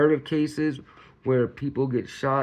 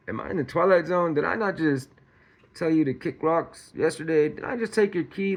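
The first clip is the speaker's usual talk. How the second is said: mock disbelief, voice climbing higher; higher-pitched, exasperated questioning; incredulous; 3 semitones higher than usual. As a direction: act out a baffled rant at the ex. Acting out the man's disbelief.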